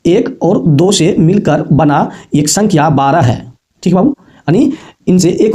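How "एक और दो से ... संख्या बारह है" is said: "एक और दो से मिलकर बना" drawn out slowly, word by word; slow model reading. Shown as a demonstration. Teacher models the reading for the children, slow and deliberate. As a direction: spell it out slowly for the class. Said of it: "इसको पढ़ेंगे बाबू".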